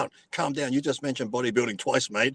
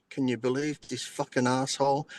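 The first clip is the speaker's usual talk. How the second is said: soft, deadpan mock disbelief; imitated straight-faced delivery; 7 dB quieter than usual. Imitating a man on his show sitting straight-faced, deadpan. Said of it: "sits there straight faced and goes".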